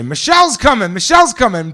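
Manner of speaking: shouted high and loud across the bar; excited shout. Real, not acted. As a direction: call it out to the whole crowd, thrilled. Announcing bride's arrival in bar.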